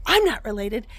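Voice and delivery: insistent, lively retelling of dad's excitement; emphatic mock excitement, swinging upward; imitating excited dad. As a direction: play an excited dad pressing the point. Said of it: "he gets so excited about it".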